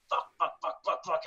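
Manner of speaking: under-the-breath whispered swearing; whispered curse. Retold or imitated. Patient being wheeled to surgery, whispering curses. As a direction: hiss the curses softly. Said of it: "I'm like".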